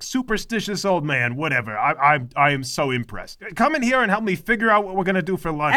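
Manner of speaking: a hint of a bossy, whiny mother; lightly voiced overbearing mom; nagging mother. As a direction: play the domineering mother scolding her son.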